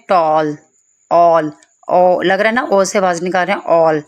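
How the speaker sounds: टॉल with a long rounded "aw"; "o" sound demo. Shown as a demonstration. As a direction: hold the vowel in ऑल. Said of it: "ओ की आवाज़ आ रही है".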